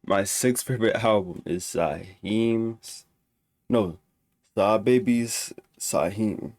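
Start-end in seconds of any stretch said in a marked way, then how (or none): none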